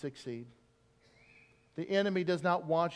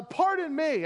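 sheepish Moses; 9 semitones higher, 4 dB louder, slower than usual. Retold or imitated. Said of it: "Moses says to the Lord".

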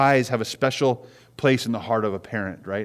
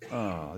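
soft, low mock groan; short acted "oh" of a groan; imitated child's groan; 5 semitones lower, 12 dB quieter than usual. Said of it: "You hear the, the groan".

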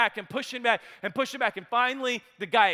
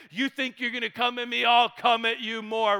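mock angry quote; 2 semitones higher than usual. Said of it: "big, bold, angry, frustrated, bitter dude".

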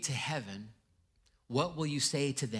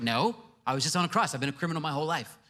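flustered thief; 4 semitones higher, 5 dB louder, faster than usual. Acted. Thief pleading at heaven's gate.

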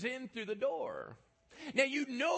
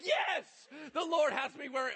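mock eager yes; 6 semitones higher, 4 dB louder than usual. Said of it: "I'm like".

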